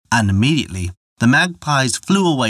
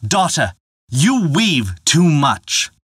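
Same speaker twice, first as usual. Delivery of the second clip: slow, raised, stern rebuke; angry father; 5 semitones higher, slower than usual. Acted. Father chiding his ever-weaving daughter, angry and slow. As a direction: scold her slowly from above. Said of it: "grew angry".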